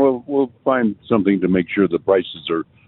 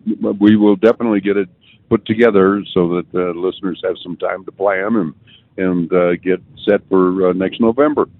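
talking through a mouthful of cheesesteak; mouth full. Real, not acted. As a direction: speak with a mouth full of food. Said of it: "you've got a mouthful of Philly cheesesteak".

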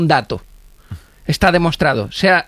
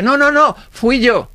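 desperate protest; 7 semitones higher, slower than usual. Retold or imitated. Desperate claim under pressure.

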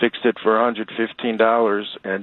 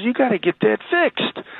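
buddy's voice; 13 semitones higher than usual. Retold or imitated.

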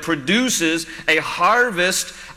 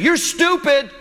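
high-pitched mock yell of a child; imitating yelling kid; 10 semitones higher, slower than usual. Kid told no about a toy, mock yelling at mom. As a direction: mimic a kid's insult pitched way up. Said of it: "he kept saying".

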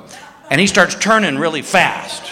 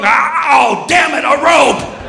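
panicked shout; 8 semitones higher, slower than usual. Retold or imitated. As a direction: panic at having only a rope. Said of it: "he's gonna get the rope".

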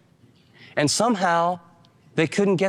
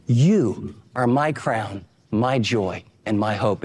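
slow, solemn, sinking lower at the end; earnest Paul; 3 semitones lower, slower than usual. Retold or imitated. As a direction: hand each line over slowly, like a vow.

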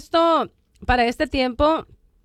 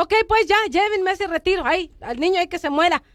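sulky; 4 semitones higher than usual. Retold or imitated. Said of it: "toda jetona y greñuda".

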